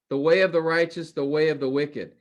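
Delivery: way stressed and held in both halves; emphasis on the way. Shown as a demonstration. Teacher showing the reversed phrases to class, stressing way. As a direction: lean on way, the righteous then the wicked. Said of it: "There's focus, there's emphasis on that".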